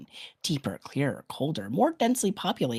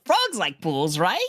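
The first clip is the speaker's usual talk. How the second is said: oafish enthusiasm; 3 semitones higher, 3 dB louder, slower than usual. Acted. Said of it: "Show oafish enthusiasm".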